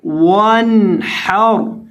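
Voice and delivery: वनहर read clean with no nasalised ghunna on the n; वनहर without ghunna, slow and careful; without nasal sound. Shown as a demonstration. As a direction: say वनहर slowly, n crisp with no nasal hum. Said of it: "यहाँ गुन्ना किए बगैर पढ़ेंगे".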